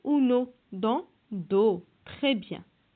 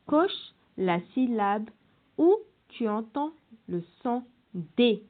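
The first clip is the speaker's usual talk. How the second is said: slow instruction. Shown as a demonstration. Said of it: "teacher reading exercise instruction".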